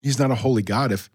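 talking through hiccups; hiccuping. Real, not acted. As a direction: hiccups breaking into the words. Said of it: "now I can't stop hiccuping".

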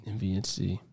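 words squeezed through clenched teeth; through gritted teeth. Real, not acted. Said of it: "Why'd you say it through your teeth?".

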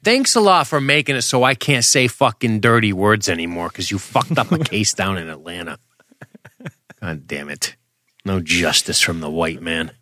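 mock outraged rant.

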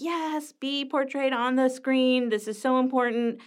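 lifted, eager cheering at the screen; excited cheer. Retold or imitated. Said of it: "And I was like".

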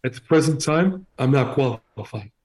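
put-on mobster quote read in a thick Italian accent; heavy Italian accent. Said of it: "read this quote from him in what you think is a heavy Italian accent".

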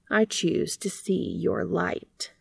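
slow, soft whisper; whispered tenderness. Acted. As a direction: breathe it out gently. Bee tenderly reassuring dandelion.

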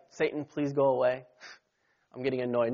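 understated, meek request; mild, polite annoyance. Acted. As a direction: ask politely, only mildly annoyed. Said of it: "It wasn't like".

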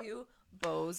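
laughing. Real, not acted. Repeating insult laughing.

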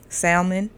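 salmon with an audible L, SAL-mun; L pronounced in salmon. Real, not acted. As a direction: sound the L in "salmon". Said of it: "I stopped saying it with an L".

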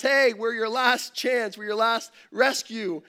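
lightly hammed-up rescue shout; mock blast from helicopter. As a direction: helicopter crew calling to the pastor, mild mock shout. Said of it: "they blast".

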